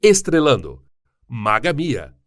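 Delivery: announcer voice. Acted. Credits announcing the star.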